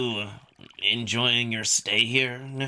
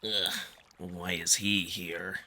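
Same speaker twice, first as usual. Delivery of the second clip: slow, soft, annoyed grumble; grumbling under breath; 7 semitones lower, 7 dB quieter, slower than usual. A narrator's reading. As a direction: mutter it to yourself, irritated. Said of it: "he only grumbles under his breath".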